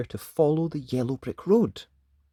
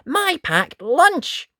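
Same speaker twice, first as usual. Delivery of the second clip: very high, louder eureka; light up with the answer; girl realising her packed lunch helps; excited realisation; 6 dB louder, much slower than usual. Acted. Dot remembers lunch.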